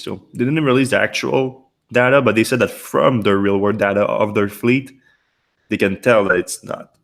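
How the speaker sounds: hoarse, strained voice; losing voice. Real, not acted. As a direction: talk through a fading, hoarse voice. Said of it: "Sorry, I'm losing my voice".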